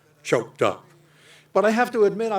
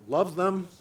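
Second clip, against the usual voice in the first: rising, doubtful echo of the words; questioning echo; 3 semitones higher than usual. Shown as a demonstration. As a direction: ask it back as if surprised by the word.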